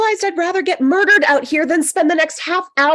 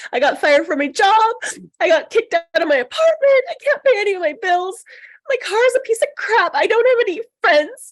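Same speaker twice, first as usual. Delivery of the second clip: crying rant; 5 semitones higher, faster than usual. Acted. Annie listing her failures.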